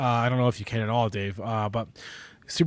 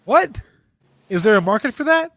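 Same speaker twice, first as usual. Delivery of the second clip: incredulous disbelief; 7 semitones higher than usual. Retold or imitated. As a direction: act stunned at the idea. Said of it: "I would have said".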